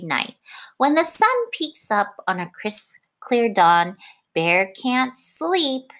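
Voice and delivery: lively picture-book read-aloud; reading to children. A narrator's reading. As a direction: read it like storytime on the rug. Teacher reads picture book aloud.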